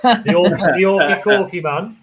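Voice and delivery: excited. Real, not acted. Excited nickname for returning member.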